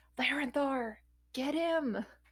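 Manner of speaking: pressing whisper. Concerned, whispering to Larenthar to act, urgent whisper. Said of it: "Can I whisper to Larenthar".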